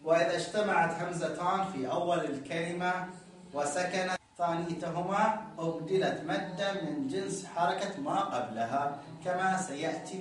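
slow, deliberate recitation of the text; reading the rule aloud. Shown as a demonstration. A teacher slowly reading the grammar rule to students. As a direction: read the rule slowly for the class. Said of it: "يقول".

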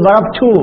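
showing how Arabs lengthen the damma in ضربتو. Shown as a demonstration. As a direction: stretch the end of ضربتو into a long u. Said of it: "العرب يشبعون الضمة أحيانًا".

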